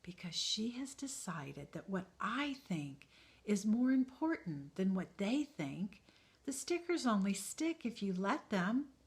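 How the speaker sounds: gently spoken; soft reassurance. Acted. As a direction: speak it softly. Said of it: "The maker spoke softly".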